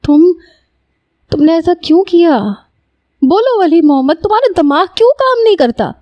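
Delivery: high, pleading reproach; desperate high-pitched rebuke; anguished scolding. Acted. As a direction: demand an answer, voice climbing high. She scolds Wali in despair.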